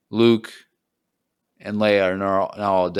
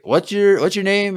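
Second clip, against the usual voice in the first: high-pitched retold question; Han Solo; 11 semitones higher than usual. Han asks his new companion's name on the ship, high imitation. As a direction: call it out much higher, imitating. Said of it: "Han is like".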